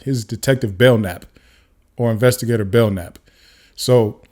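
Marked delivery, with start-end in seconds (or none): 0.8-1.2 "Belknap" with the K left silent. Shown as a demonstration. Explaining the detective's name to viewers, "Belknap" with silent K. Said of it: "So that K is silent". 2.6-3.2 "Belknap" pronounced "bell-nap"; silent K. Shown as a demonstration. Correcting the investigator's name for viewers, "Belknap" with silent K. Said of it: "So that K is silent".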